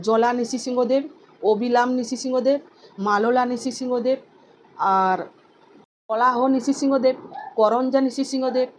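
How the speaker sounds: steady listing recital of sacred names; name recitation. Acted. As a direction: recite each name like a litany. Recites the nine divine names.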